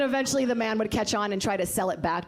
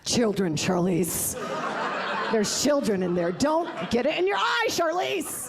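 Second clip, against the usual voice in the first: scolding director yell; 3 semitones higher, slower than usual. Retold or imitated. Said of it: "they're like".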